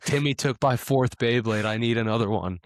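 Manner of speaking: put-on whiny kid voice. Kid begging his dad for another Beyblade. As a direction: beg dad like a spoiled kid.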